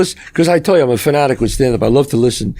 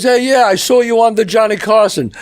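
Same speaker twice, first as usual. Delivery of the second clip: a bit higher eager fan call; pushy fan; 6 semitones higher than usual. Retold or imitated. Fan recognizing Woody on the street, lightly voiced eager call. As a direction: blurt it like an excited stranger. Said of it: "he goes".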